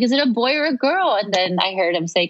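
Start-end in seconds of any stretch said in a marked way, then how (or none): 0.0-1.2 higher, excitedly pressing for an answer; eager asking. Retold or imitated. New mother pressing officers who didn't answer, eagerly asking. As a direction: retell an impatient, excited question.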